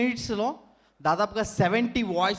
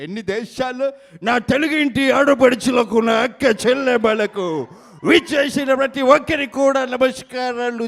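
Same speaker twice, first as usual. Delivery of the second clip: boastful leader. Acted. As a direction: brag about naming the awards. Mimicry act, boastful leader.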